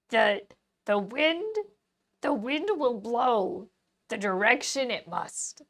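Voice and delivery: slow, mock-wise sage; drawn-out mystic proverb; lightly voiced wise sage; cryptic sage. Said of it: "I could do cryptic sage".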